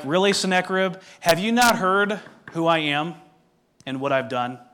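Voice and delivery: mildly condescending, leaning on Really and not. Shown as a demonstration. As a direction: talk down to him like he should know better. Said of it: "very condescending in tone and nature".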